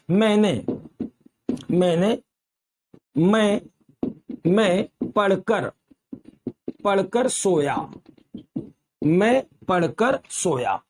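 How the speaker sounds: slow, halting word-by-word dictation; dictating. Shown as a demonstration. Teacher writing an example sentence on the board, dictating. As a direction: draw out each word, pausing to write.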